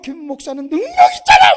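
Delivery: high shouted demand; loud, hammed-up insistence; imitating resentful aunt. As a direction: shout it as a protesting relative. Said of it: "막 그냥 막 하나님을 원망해요".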